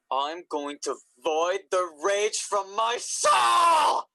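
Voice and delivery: slow, loud, seething vow; furious declaration. Acted. Fed up with the parents, vowing slowly and loudly. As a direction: bellow it out, dragging each word slowly.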